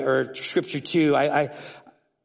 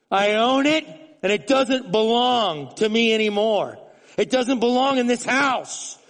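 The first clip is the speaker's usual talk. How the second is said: fervent confession; 7 semitones higher than usual. Acted. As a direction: cry out to God in repentance. Preacher voicing confession prayer.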